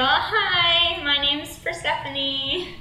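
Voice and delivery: mild awkward greeting, name stretched out; hesitant, drawn-out hello; uneasy politeness. Acted. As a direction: answer a creep politely and warily. Acting her uneasy teenage self.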